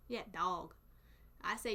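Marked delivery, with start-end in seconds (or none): 0.3-0.7 "dog" with an aw vowel; southern pronunciation. Shown as a demonstration. Confirming the southern way, "dog" as dawg. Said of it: "It's like an aw sound for us".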